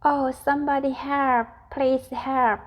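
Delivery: high pleading calls for help; frightened cries. Acted. Miss Tiny begging for rescue from the cat, high frightened pleas. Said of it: "shrieked Miss Tiny at the top of her voice".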